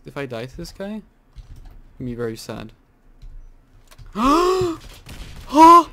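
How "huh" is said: shocked gasp. Real, not acted. Sudden loss, shocked.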